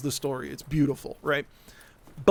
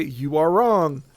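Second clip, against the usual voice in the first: flatly kind correction; slower than usual. Retold or imitated. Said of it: "I'm gonna be as kind as I can here and just say".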